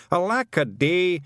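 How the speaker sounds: loud, high, slow wail; mock lament shout. Feegles shouting their woe. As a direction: cry it to the heavens.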